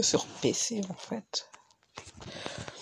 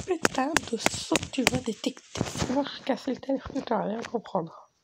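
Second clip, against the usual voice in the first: angry; 5 semitones higher than usual. Real, not acted. Raging at the game's jumps.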